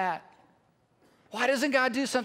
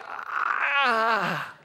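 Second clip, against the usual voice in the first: mock cry. Onlooker's cry at the living Lazarus.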